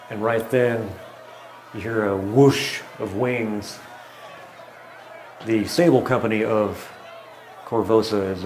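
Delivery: measured scene-setting with pauses; game master narration. Acted. Game master describes chaos outside to players, scene-setting narration. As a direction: narrate the scene in deliberate, spaced-out phrases.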